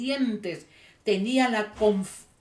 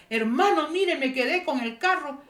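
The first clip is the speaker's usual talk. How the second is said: acted appeal; 6 semitones higher than usual. Stranded driver appeals for help.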